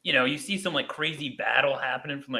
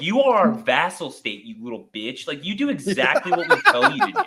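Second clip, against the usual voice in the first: hammed-up superpower bully dressing down an ally; American empire; 2 semitones higher than usual. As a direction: lord it over a British critic. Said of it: "I turn, like, American empire".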